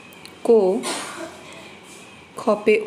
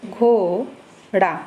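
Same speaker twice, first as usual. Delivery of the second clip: घोड़ा drawn out very slowly, the ओ held long; slow demo reading; much slower than usual. Shown as a demonstration. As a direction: stretch घोड़ा slowly for the class. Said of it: "इसको हम पढ़ेंगे".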